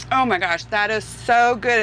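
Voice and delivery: talking through a mouthful; chewing while talking; mouth full. Real, not acted. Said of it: "don't wanna talk with my mouth full".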